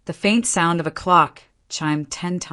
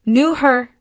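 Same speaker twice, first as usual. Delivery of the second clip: laughing through sobs; 8 semitones higher, 5 dB louder than usual. A narrator's reading. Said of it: "almost laughing through the sobs".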